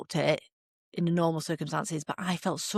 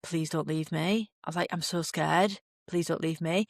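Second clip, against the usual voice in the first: scared plea. Retold or imitated. Scared in medic tent, pleading.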